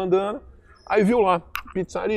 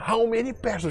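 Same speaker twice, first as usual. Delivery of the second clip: mock pissed-off irritation, higher and quieter; 4 semitones higher, 3 dB quieter than usual. Retelling how a woman, already fed up, repeated her question to a man, mock-pissed-off. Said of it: "já puta da vida".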